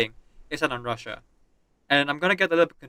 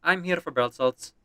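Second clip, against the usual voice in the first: put-on Russian accent; 4 semitones higher, 5 dB louder than usual. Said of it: "we are playing as a Russian character".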